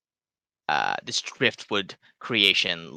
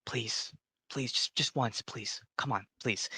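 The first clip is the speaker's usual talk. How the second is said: pleading halfling; 11 dB quieter than usual. Acted. Halfling begs for a laugh.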